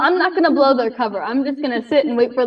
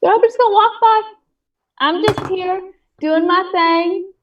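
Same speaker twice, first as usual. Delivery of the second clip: sassy; 3 semitones higher than usual. Acted. Player voices sassy rogue.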